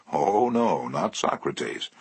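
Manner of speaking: plain reading voice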